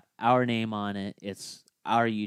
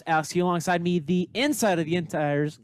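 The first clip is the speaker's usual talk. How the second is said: higher, louder ringmaster intro; 6 semitones higher, 4 dB louder than usual. Acted. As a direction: announce it like a circus ringmaster. Show intro announcer.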